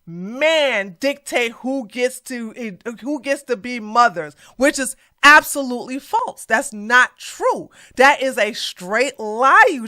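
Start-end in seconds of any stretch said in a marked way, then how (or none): 0.0-4.3 quoting slowly. Retold or imitated. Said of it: "statement like this".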